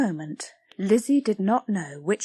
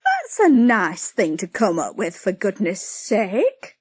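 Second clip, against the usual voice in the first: indignant cry; 5 dB louder than usual. Acted. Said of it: "cried Patty".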